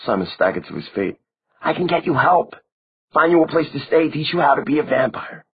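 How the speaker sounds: urgently trying to pull her away; young Simon, alarmed and urgent. A narrator's reading.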